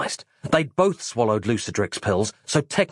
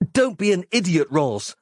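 gruff hero voice; 7 semitones higher than usual. Acted. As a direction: brush her off impatiently. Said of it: "said Mike".

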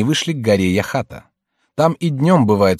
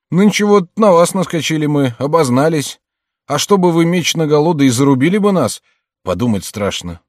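higher-pitched, plaintive confession; hapless former servant; 4 semitones higher, 4 dB louder than usual. Acted. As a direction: explain yourself to your old master, pleading. Servant Айске tells his misfortunes. (жалобный голос незадачливого слуги)

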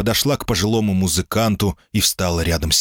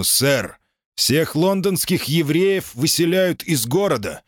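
stern police sergeant; firm low voice; 9 semitones higher than usual. A narrator's reading. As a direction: announce it with hard authority. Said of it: "твёрдый и низкий".

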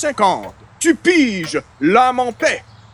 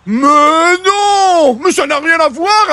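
indignant protest; 5 semitones higher, 3 dB louder, slower than usual. Acted. Indignant denial of fan.

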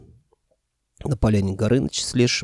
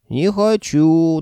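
slow, louder pouting no; sulky refusal; 7 semitones higher, 5 dB louder, much slower than usual. A narrator's reading. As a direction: sulk like a stubborn old man. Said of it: "насупился леший".

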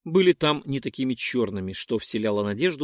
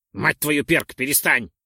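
stern command; 4 dB louder than usual. Acted. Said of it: "строго сказал Ролдон".

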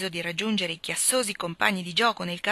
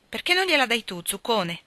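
higher, louder teasing exclamation; exclaiming; 4 semitones higher, 3 dB louder than usual. Acted. Esther teases her brother to give the rose, lively exclamation. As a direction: tease your brother out loud. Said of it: "esclamò lei".

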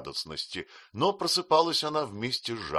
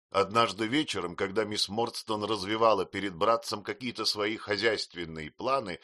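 plain reading voice

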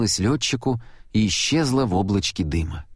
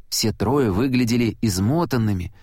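plain reading voice

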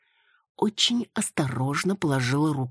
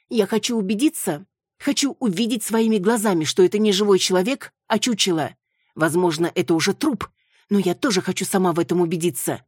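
higher, louder, speeding at the end; insistent Маруся; 5 semitones higher, 4 dB louder than usual. Acted. Маруся insisting to the crowd, higher and louder. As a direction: demand to see it.

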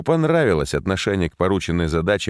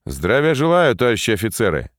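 higher, louder parade-style greeting; loud military greeting; 4 semitones higher, 3 dB louder than usual. Acted. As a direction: call the greeting out to the officers. Major greets arriving officers.

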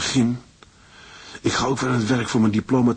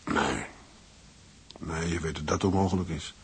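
hushed night talk; 6 dB quieter than usual. Acted. Husband to wife in bed at night, hushed. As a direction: keep it down so the house sleeps.

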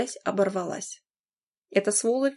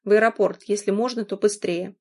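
urgent; 4 dB louder than usual. Acted. Urging taxi driver.

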